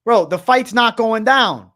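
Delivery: loud, slow, emphatic; loud slow proclamation; emphatic declaration. Real, not acted. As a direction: hammer the news home slowly. Streamer declares fight cancelled.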